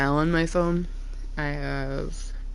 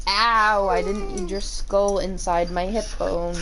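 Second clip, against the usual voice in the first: louder yelp of pain, then complaint; real pained complaint; 5 dB louder, slower than usual. Real, not acted. Owner yelping as the dog butts her hip. Hurt by the dog's head.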